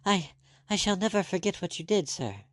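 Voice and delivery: high, stammering tearful thanks; through fading tears. Acted. Rescued girl thanking the doctor, fading tears. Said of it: "through her diminishing tears".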